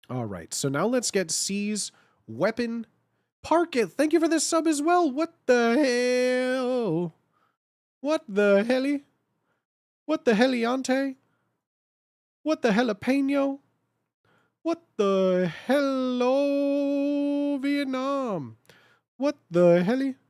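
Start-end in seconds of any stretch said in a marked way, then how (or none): 3.4-5.1 excited thanks. Real, not acted. Thanking a subscriber hyped. 5.1-20.2 high, silly cartoon voice, stretched words; goofy silly voice. Silly sub alert riffs.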